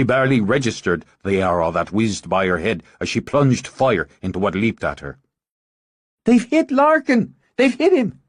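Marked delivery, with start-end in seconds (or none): 6.2-8.2 high, loud cry of alarm; alarmed shout. Acted. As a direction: scream the warning over the fight. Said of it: "At Moira's shout".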